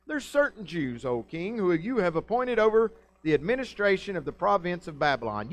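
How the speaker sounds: a hint of a prosecutor stating the charge; lawyer voice. Chaldeans accusing the Jews before the king, lawyerly. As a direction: lay out the accusation formally. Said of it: "my lawyer voice".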